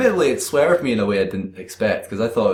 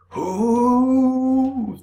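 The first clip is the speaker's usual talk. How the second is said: very high squeaky question. Acted. Characters speaking in unison.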